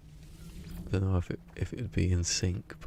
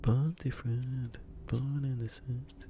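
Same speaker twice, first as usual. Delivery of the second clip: mock trailer voice; 6 semitones higher, 3 dB quieter, slower than usual. Shown as a demonstration. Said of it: "I could do that for all of them".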